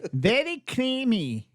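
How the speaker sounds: a bad German impression; hammed-up German on very creamy; German accent. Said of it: "I messed that voice up".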